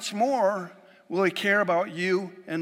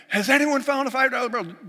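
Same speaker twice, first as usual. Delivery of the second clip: high, loud announcer call over a store speaker; hammed-up store loudspeaker plea; mock PA announcement; 8 semitones higher, 4 dB louder than usual. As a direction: broadcast it to the whole store like a public address. Billionaire on the store PA.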